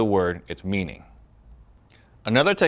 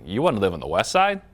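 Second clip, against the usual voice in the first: incredulous echo question rising at the end; mildly sarcastic, question it back. Retold or imitated. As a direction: repeat it back as a doubting question. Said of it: "it sounded sarcastic".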